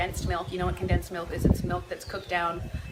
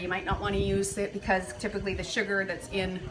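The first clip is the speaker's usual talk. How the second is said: breathless while talking; winded, short of air; out of breath; 2 semitones lower, 3 dB quieter than usual. Real, not acted. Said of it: "I'm out of breath".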